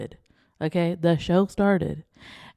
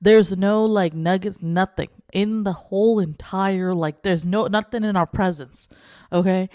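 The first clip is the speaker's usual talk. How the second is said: insistent correction. Retold or imitated. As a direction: correct the agent pointedly. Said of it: "I'm like".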